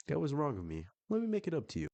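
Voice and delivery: mock apologetic pleading. Rejected man texts the widow an apology, mock pleading. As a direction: plead in a high put-on voice.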